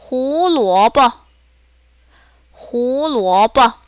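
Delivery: 호루어버 drawn out, with a short light 버; slow 호루어버, toneless quick last syllable; neutral-tone ending. Shown as a demonstration. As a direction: model 호루어버 slowly, clipping only 버. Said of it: "짧고 간단하게".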